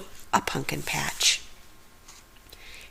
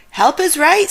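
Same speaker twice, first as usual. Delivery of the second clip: frightened; 9 semitones higher, 5 dB louder than usual. Acted. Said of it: "Shaggy frightened".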